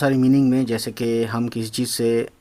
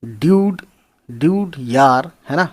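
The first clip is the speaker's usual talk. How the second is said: lively call; 4 semitones higher, 6 dB louder, slower than usual. Acted. Teacher calling out a slang word.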